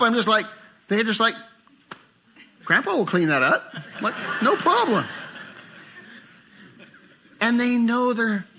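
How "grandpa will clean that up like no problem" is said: put-on carefree kid. Voicing a carefree grandchild.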